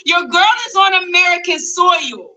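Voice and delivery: high, happy homecoming announcement. Real, not acted. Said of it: "why do you sound so happy".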